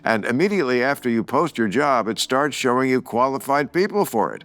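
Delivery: smooth sponsor read, slowing on URLs. Acted. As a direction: read it like a radio spot. Host reads sponsor ads.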